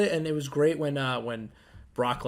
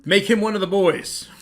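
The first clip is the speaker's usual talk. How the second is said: laughing; 5 semitones higher than usual. Real, not acted. Joking suggestion, laughing.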